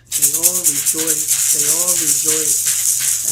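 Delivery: loud, slow, drawn-out cry; loud, slow jubilant shout; preaching shout. Real, not acted. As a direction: proclaim it to the whole congregation.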